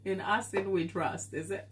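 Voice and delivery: said through laughter; laughing. Real, not acted. Streamer laughs at a viewer's football club. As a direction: giggle your way through the words.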